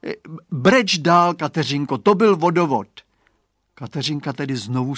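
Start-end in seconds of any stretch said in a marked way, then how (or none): 0.1-2.9 put-on boy calling out. A narrator's reading. Chlapec woła w mgle.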